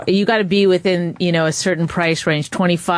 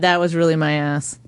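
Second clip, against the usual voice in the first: Southern accent; 2 semitones lower than usual. Shown as a demonstration. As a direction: say it like a Southern belle. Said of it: "you start talking Southern".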